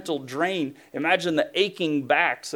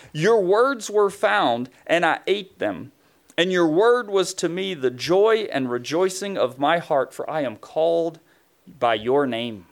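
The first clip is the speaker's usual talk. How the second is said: reading Jeremiah's words; 3 semitones higher, 3 dB louder than usual. Acted. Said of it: "Jeremiah says".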